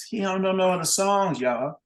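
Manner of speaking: mocking announcement. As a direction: show him up to the crowd. Bandleader mocking to crowd.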